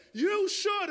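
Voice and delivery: high, oracular build-up; mock-momentous announcement; neighbor's grand pronouncement. Neighbor's dramatic drawn-out pronouncement.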